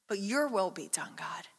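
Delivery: hushed whisper, falling away to nothing; quiet yielding prayer; whispered surrender. Acted. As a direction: breathe out "but your will be done". Quoting Jesus' prayer, surrendering.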